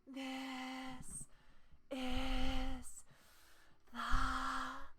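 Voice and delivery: slow, flat, constant air on every word; breathy voice. Shown as a demonstration. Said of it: "then I'll properly do it".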